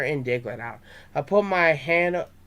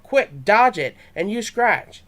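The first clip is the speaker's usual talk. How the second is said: calling commands to his Pokemon, louder; a kid's battle yell, higher; 5 semitones higher, 5 dB louder than usual. A narrator's reading. Trey shouting orders at Charmander in battle, loud. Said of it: "Trey yelled".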